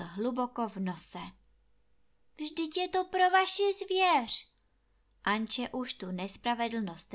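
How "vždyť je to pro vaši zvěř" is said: higher pleading. A narrator's reading. Anče pleading with landlord.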